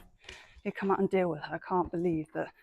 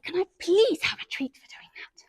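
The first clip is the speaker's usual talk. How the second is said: pony voice; 9 semitones higher, 4 dB louder than usual. Pretend. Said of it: "She's like".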